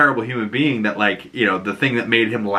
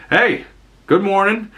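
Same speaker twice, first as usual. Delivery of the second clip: mock friendly greeting; 9 semitones higher than usual. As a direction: call out a chirpy retold hello.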